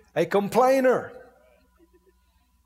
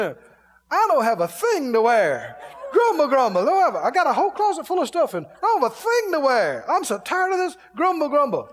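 high mock whine about clothes; hammed-up whining; 5 semitones higher than usual. Standing at a full closet, hammed-up whining complaint.

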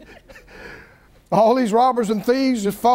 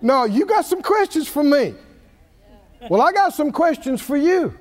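God questioning; 2 semitones higher than usual. Acted. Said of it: "And then the Lord said".

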